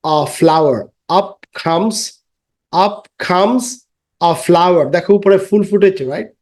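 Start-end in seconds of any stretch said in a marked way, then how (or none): 0.0-4.8 put-on slow, sing-song rhyme for children; rhyme recitation. Shown as a demonstration. Teacher reciting a rhyme to pupils, sing-song. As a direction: chant it for young pupils.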